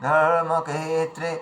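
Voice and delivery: slow, shaky ধর্মক্ষেত্রে; wrong way: wavering delivery; trembling voice. Shown as a demonstration. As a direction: let the voice quiver through ধর্মক্ষেত্রে. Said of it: "কাঁপিয়ে কাঁপিয়ে কথা বলে".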